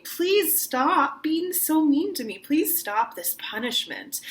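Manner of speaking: slow, high begging plea; pleading. Shown as a demonstration. Singing teacher demos the song's plea, slow and high. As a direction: beg them to stop the punishment.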